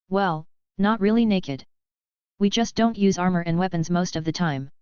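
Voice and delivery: talking while chewing; words round a bite of meat; mouth full. Acted. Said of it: "Tiona added while chewing on some meat".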